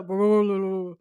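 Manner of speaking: loud babbled imitation of a gruff voice. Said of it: "'Cause it's super low".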